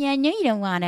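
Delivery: put-on, childish baby talk voice. Retelling what she said to her partner; retelling baby talk. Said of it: "it's enough of the baby talk".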